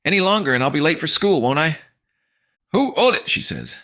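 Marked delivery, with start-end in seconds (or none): 0.0-1.8 strained through clenched teeth; gritted teeth. Acted. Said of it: "through gritted teeth". 2.7-3.3 high, smiling tease; teasing mom. Acted. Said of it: "voice shifts ... big smile".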